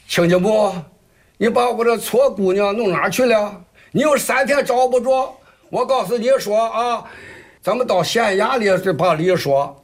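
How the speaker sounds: an outraged mother threatening the in-laws, in Jinan dialect; angry in-law in Jinan dialect. Acted. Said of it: "您这个济南话 很标准呀".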